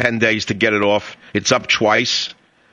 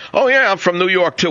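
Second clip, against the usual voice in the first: mock caller; 9 semitones higher than usual. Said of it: "I love that".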